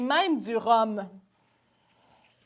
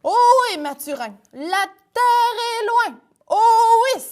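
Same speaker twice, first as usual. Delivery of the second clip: higher, lightly voiced young sailor; sailor son; 10 semitones higher, 5 dB louder than usual. A son talks to Mathurin at sea, lightly voiced. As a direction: sigh it out at sea.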